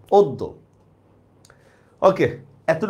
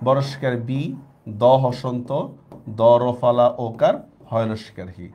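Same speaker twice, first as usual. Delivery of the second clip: spelling out slowly; 5 semitones lower, slower than usual. Shown as a demonstration. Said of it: "উচ্চারণটা লিখবো হচ্ছে এইভাবে".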